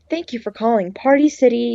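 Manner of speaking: lightly robotic phone greeting. Retold or imitated. Employee answering the store phone, robot voice. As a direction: recite it like an automated greeting. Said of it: "I used to have a robot voice".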